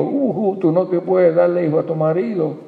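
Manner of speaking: mocking taunt. Rival mocking Ana.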